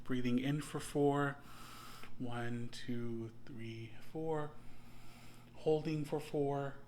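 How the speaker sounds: slow, paused breathing-meditation count; guided breathing count. Shown as a demonstration. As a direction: count them gently through each breath, leaving space.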